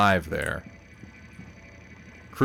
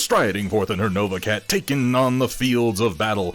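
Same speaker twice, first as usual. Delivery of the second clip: hyped-up announcer read; 2 semitones higher than usual. Acted. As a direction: boom it like a ring announcer. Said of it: "read this first one on my best Solaris announcer voice".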